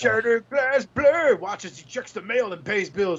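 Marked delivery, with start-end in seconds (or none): 0.0-1.3 put-on kids commercial announcer. Shown as a demonstration. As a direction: announce it like a toy ad. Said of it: "kids commercial".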